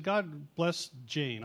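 "God bless Jane" drawn out very slowly, word by word; slow churchy prayer. Shown as a demonstration. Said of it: "you need to learn how to pray non-church prayers".

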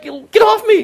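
high, loud yell; a hammed-up shout of get off; comic shout. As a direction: shout her off. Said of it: "it's like".

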